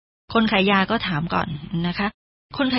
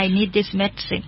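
slow, soft English line; slow teacher model; slow model reading; 5 dB quieter, much slower than usual. Shown as a demonstration. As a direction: read slowly for learners. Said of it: "แล้วก็บอก".

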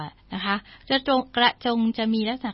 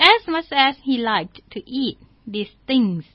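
slow story reading; 3 semitones higher, 5 dB louder, much slower than usual. Shown as a demonstration. English story read slowly.

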